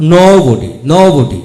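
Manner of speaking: teacher's model of "nobody"; model pronunciation. Shown as a demonstration. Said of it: "ঔকার উচ্চারিত হয়". (জোরে স্পষ্ট "nobody")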